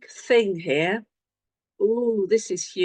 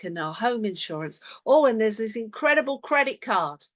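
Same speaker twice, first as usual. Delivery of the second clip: excited husband. Retold or imitated. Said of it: "goes all excited".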